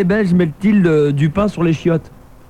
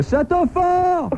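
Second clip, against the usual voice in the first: put-on Belgian accent; 12 semitones higher, much slower than usual. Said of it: "comment on dit château fort en belge".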